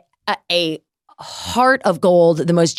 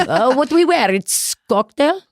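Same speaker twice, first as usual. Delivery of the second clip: Sofia Vergara; 5 semitones higher than usual. Retold or imitated. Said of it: "What's your impression of Sofia Vergara?".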